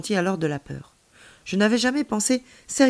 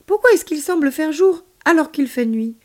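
puzzled questioning; 9 semitones higher, 7 dB louder than usual. A narrator's reading. Child puzzled by screen.

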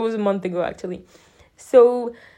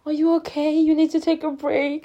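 high, caring dentist voice; imitated concern; 7 semitones higher than usual. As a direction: play the concerned dentist, pitched up.

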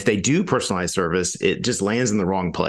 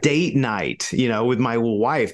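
annoyed diner; 3 semitones higher than usual. Retold or imitated. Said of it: "And you're like".

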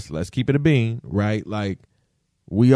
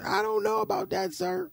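skeptical; 8 dB quieter than usual. Acted. Skeptical about covid pills.

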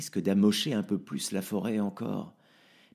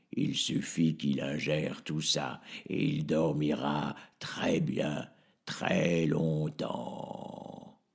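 sinister possessed doctor; 4 semitones lower, 3 dB quieter, much slower than usual. Acted. Docteur possédé, menace sinistre.

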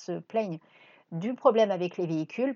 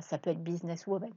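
choking on a drink, words strained; 5 dB quieter than usual. Real, not acted. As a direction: voice catching in throat. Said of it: "pardon, je m'étouffe".

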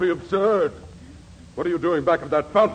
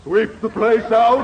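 incredulous; 2 semitones higher, 5 dB louder than usual. Acted. Actor incredulous at producer's chore.

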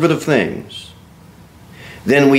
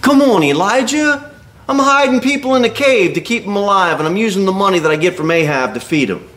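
higher, defensive protest with a rush at the end; indignant Obadiah; 5 semitones higher than usual. Obadiah defending his hidden prophets to Elijah, indignant. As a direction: defend yourself, hurt and quick. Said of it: "that's why he says".

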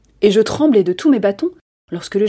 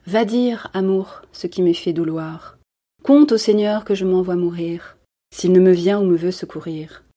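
measured, tender recited lament; poem recitation. Acted.

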